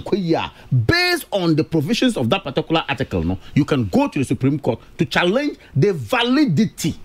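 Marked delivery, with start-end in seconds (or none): 5.8-7.0 VALIDITY spelled out syllable by syllable; "validity" in measured, separate beats; emphasis on validity. Real, not acted. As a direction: lean deliberately on every syllable of "validity". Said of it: "And I'm emphasizing validity".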